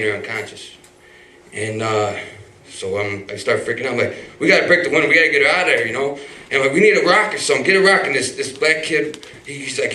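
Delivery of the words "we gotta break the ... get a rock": urgent shouting. Retold or imitated. Urgent shouting at bystanders at wreck.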